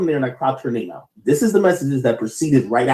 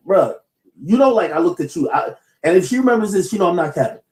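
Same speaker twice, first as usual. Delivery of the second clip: stuttering. Real, not acted. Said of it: "Act, you stuttering too much".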